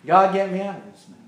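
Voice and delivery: soft, rushed repeat of a prayer; quiet aside. Acted.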